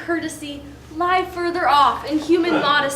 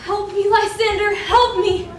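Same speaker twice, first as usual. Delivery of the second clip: frightened cry; 3 semitones higher than usual. Acted. Hermia cries out from nightmare.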